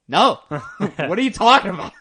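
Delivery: loud, high mock refusal breaking into laughter; hammed-up bafflement through giggles; laughing disbelief. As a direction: blurt an incredulous no, then laugh. Homie's acted incredulous reply, laughing.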